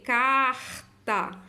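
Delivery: Carta with "car" held, then "ta"; syllable-final R. Shown as a demonstration. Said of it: "tem um Rzinho aqui".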